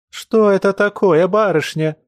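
high tearful wail. A narrator's reading. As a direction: cry it out, pleading. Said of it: "вопила она с плачущим".

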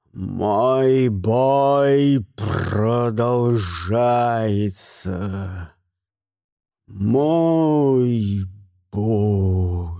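drawn-out low booming war cry, fading on the last бой; mighty roar. A narrator's reading. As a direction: stretch every word like a battle chant. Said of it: "заорал Гримуэль таким могучим голосом". (протяжный могучий боевой клич)

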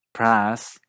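PRICE as regional American 'praas', glide lost; regional American accent. Shown as a demonstration. Teacher comparing regional accents, American PRICE without glide. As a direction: flatten American PRICE to a long 'a'. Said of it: "en otras partes de Estados Unidos".

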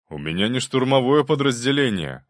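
loud objection; a guard commander objecting to the aide. A narrator's reading. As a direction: push back firmly. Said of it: "возразил командир гвардейцев".

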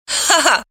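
laugh. A narrator's reading. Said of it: "рассмеялась она".

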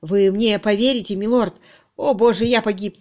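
loud, anguished appeal; a ruined man's lament; despairing plea. Acted. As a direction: beg to be believed. Suspect in despair begs belief.

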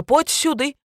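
high, loud, rough village shout; coarse yelling mother. A narrator's reading. Mother yells at her daughter to come, coarse loud shout. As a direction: bark it at the girl like a crude mother. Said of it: "заорала Зина".

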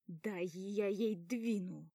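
put-on angry guy fuming at the girl; angry threat. A narrator's reading. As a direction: threaten in irritation. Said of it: "злюсь я".

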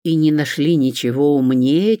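ordinary delivery, nothing marked

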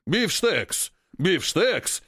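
excited ape chanting; ape leader voice. Acted. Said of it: "кивает вожак". (радостный выкрик обезьяны)

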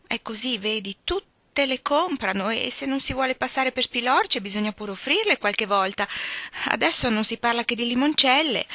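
hint of a pompous schoolgirl; voiced Amy. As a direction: show off a big word proudly. Narrator voicing Amy.

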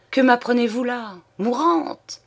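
high, incredulous questions; shocked disbelief. A narrator's reading. Old man questions the news of her dying, shocked. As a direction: pitch climbs to a disbelieving rise.

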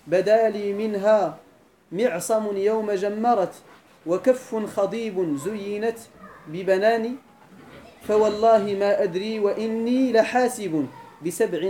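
very slow, measured verse chanting; slow classical verse recital; poem recital. Shown as a demonstration. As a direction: linger on each phrase of the verse.

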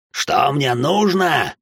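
slow, growled question; growled retort. A narrator's reading. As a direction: drag it out with menace. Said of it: "прорычал старик".

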